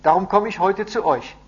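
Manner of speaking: loud, high-pitched report; proclaiming. A narrator's reading. Messenger explains how the letter spreads, loud and proclaiming. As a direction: carry the news over a crowd.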